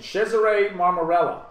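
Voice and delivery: Cesare said as CHEH-zah-reh, Italian style; Italian pronunciation. Shown as a demonstration. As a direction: pronounce Cesare Marmarella the Italian way. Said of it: "Cesare is the correct pronunciation".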